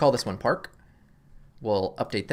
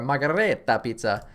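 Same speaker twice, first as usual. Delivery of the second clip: hammed-up Italian accent on margarita pizza; mock Italian accent. Shown as a demonstration. To viewers, jokingly repeating the pizza in a mock Italian accent. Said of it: "That's my Italian accent".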